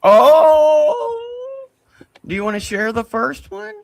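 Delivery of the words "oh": loud, high gasped oh; real shocked exclamation; surprised. Real, not acted. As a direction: react as if floored by the news. Shocked reaction to "second.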